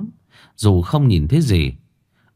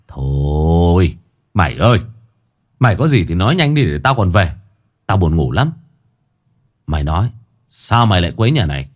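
lower, fast, sleepy grumbling; impatient boy; 3 semitones lower than usual. Acted. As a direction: hurry the ghost so he can go home to bed. Impatient boy talks to ghost.

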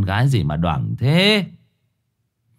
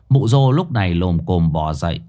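plain reading voice

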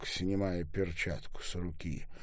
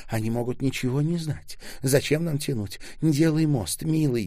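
higher, louder urging; urgent pleading; 6 semitones higher, 5 dB louder than usual. A narrator's reading. Ольга urging her beloved to act now, pleading. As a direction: plead with mounting insistence.

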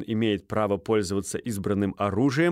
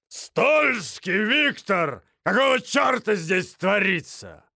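growled roar; 9 semitones higher, slower than usual. A narrator's reading. Major Минц bursting in drunk, slow booming roar. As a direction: bellow like a tipsy major. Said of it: "прорычал он".

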